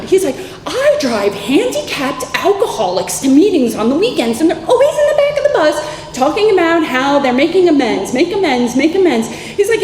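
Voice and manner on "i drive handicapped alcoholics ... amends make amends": high, louder mock-weepy rant; imitated tearful outburst. Boss unburdening himself to former employee, imitated tearful outburst. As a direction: imitate a worked-up, tearful man. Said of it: "he starts crying a little".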